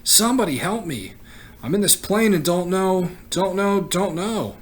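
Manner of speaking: high, loud, desperate screams for help; terrified boy yelling for rescue; panicked screaming. Acted. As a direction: scream into the mic as panic takes over. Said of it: "he began to scream into the microphone".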